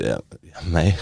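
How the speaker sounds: low, hesitant Bavarian; halting Bavarian musing; Bavarian dialect. Shown as a demonstration. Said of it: "das Bayerische".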